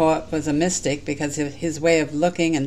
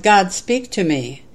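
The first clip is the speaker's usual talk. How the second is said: raised, louder plea to God; mild yell; 4 semitones higher, 5 dB louder than usual. Acted. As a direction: call out slowly to God, a reader's restrained yell. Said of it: "So I yelled".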